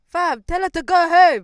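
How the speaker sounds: high, very loud, slow dismissal; exasperated outburst. Retold or imitated. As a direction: holler it as if fed up. Exasperated outburst in retold quarrel.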